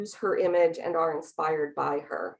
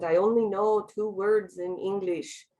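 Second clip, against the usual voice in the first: put-on accent of a singer and actress. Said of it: "in a really thick accent".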